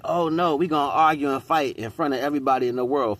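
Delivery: mocking quote. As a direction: lampoon a couple eager to fight in public.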